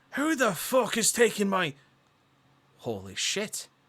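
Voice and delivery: gruff, loud, barking voice. Narrating as a grizzled Marine group leader turns and speaks, gruff Marine voice. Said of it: "with a gruff voice going".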